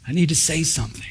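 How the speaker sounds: soft, urgent pleading prayer; chomping at the bit. Retold or imitated. Retelling an eager silent prayer to the Lord, hushed pleading. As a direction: plead under your breath, impatient to speak. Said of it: "chomping at the bit".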